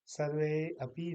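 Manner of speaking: सर्वे अपि with the अ sounded; two separate words. Shown as a demonstration. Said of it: "नहीं कहेंगे".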